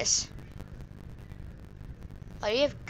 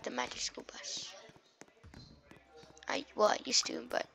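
soft unvoiced whisper; 9 dB quieter than usual. Real, not acted. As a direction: whisper it to yourself. Whispering aside.

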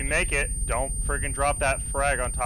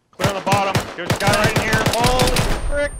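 man down shout; 11 semitones higher, 14 dB louder than usual. Real, not acted. Shouting callouts in firefight.

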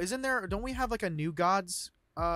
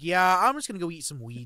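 lazy god voice; 4 dB louder than usual. Retold or imitated. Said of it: "and he's just like".

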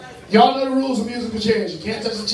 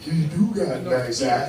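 much lower, slow tough-guy swoon; big guy's admiring voice; 9 semitones lower, slower than usual. Acted. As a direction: slip into a slow, deep big-man voice. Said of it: "Even the big niggas talking about".

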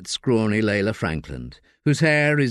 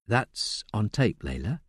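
quiet caution; 6 dB quieter, slower than usual. Acted. Solicitor cautioning Layla softly. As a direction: warn her client quietly.

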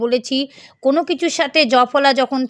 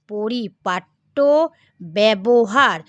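slow careful reading; 2 semitones lower, much slower than usual. Shown as a demonstration. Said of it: "তাহলে কি হলো".

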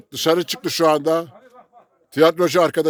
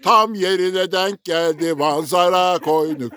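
slow poem recital; slower than usual. Pretend. Recites rhyming verse lines.

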